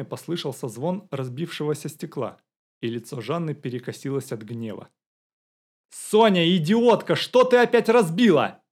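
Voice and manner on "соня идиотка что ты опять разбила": much higher, loud furious yell; screaming. A narrator's reading. Woman yelling at the maid over broken glass, furious scream. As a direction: scream at the maid from across the house. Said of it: "закричала женщина".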